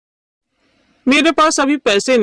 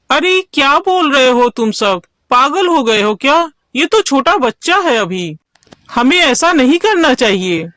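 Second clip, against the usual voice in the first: raised-pitch, pleading objection; indignant protest; 3 semitones higher than usual. Acted. Gopal objecting to villagers killing the cub, indignant.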